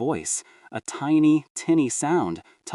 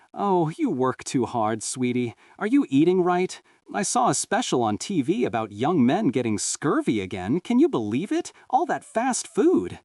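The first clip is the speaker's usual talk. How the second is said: lightly voiced chatty mom, rising high at the end; fussing mother; 5 semitones higher than usual. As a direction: mom nagging her son about eating right, light fuss. Mother fussing over son.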